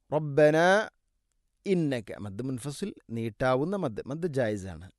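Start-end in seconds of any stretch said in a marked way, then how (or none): 0.1-0.7 റബ്ബനാ with the final നാ stretched; long madd. Shown as a demonstration. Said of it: "നാലോ അഞ്ചോ ഹർക്കത്തിൻ്റെ ഖദറിലത് നീട്ടണം". (റബ്ബനാ മദ്ദ് നീട്ടി)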